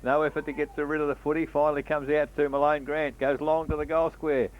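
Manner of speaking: quick radio football call; country radio footy commentary; live play-by-play. Acted.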